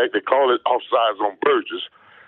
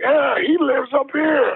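high, slow mock friend voice; a put-on high drawn-out voice; imitating his friend; 13 semitones higher, much slower than usual. Retelling what his friend told him, in a high slow voice.

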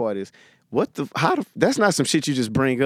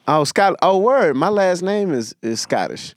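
comic doing crowd work; 2 semitones higher than usual. Pretend. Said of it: "I'll pretend to be that person".

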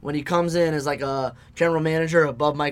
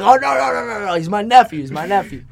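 lightly mock Southern uncle protesting; hint of Southern accent, higher, defending the nephew; 4 semitones higher, 5 dB louder than usual. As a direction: wave her off in a bit of a Southern accent. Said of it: "he puts on the Southern accent".

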